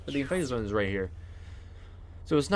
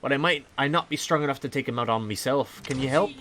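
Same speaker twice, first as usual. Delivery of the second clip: pirate voice; 3 semitones higher than usual. Acted. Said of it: "sorry for the pirate voice".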